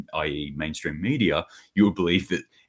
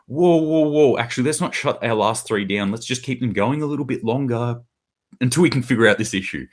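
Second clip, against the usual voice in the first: mock alarmed backpedal; 5 semitones higher than usual. Germany suddenly backpedalling on closing plants, mock alarm. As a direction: pull up short like you've just noticed.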